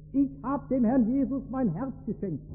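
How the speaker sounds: lightly voiced proud announcement from a young assistant preacher; enthusiastic young preacher. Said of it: "ganz begeistert zu seinem alten".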